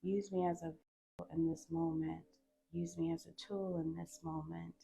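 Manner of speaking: softly spoken invocation; spoken prayer. Real, not acted. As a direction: ask Spirit in, softly and with pauses. Prays aloud to Spirit.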